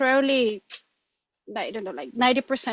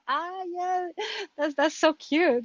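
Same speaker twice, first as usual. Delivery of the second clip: fond cooing; 8 semitones higher, slower than usual. Retold or imitated. Learner looking back on an old recording, fond cooing. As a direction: coo fondly in a raised pitch.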